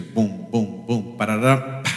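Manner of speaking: low vocal drum beats ending in a roll; drum-kit imitation. Shown as a demonstration. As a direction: boom out a drum pattern by mouth. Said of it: "cuando se toca batería es batería".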